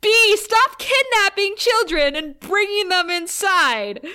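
high, loud scolding through laughter; laughing mock scold. Telling off Joyce for bringing strangers home, laughing. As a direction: scold Joyce while cracking up.

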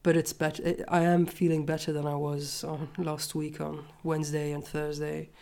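stuffy nose from a cold; congested. Real, not acted. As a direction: talk through a blocked nose. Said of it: "I might sound a bit congested".

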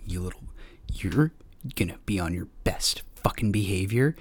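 stern parental whisper; hissing a warning under breath. Retold or imitated. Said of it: "And they were like".

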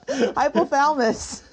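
laughing through the word; giggly failed attempt. Real, not acted. Podcaster failing to say hypothalamus, laughing. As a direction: try the word while cracking up. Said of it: "I can't do it".

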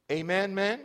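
loud rising call to the men; preacher rousing the men for an answer; rallying call. Real, not acted. Preacher calls for response.

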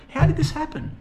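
high-pitched acted panic; mock freaking out. Boris demands answers from the Americans, freaking out in a high voice. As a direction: squeal it in mock alarm, voice shooting up. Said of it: "freaking out".

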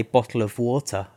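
demonstrating a British accent. Shown as a demonstration. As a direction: model the British pronunciation clearly. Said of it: "like a British person".

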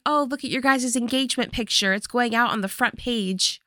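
quick, mildly excited mock-mom chatter; happy mom. Mom showing off the engagement picture, happy. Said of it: "Mom is so happy".

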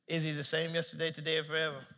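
soft, low, calm question; gentle questioning. Retold or imitated. Holy Spirit asking Nick about his father, gentle. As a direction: ask quietly and patiently.

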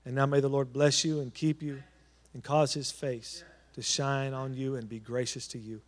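solemn closing blessing; benediction prayer. Acted. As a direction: bless the people as they go. Closing blessing over the congregation.

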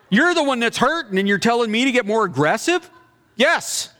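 high, disbelieving retort; incredulous. Retold or imitated.

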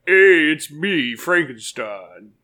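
slow monotone monster; Frankenstein. Acted. Repeating the monster voice on request, slow monotone. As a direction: plod through it in a monotone.

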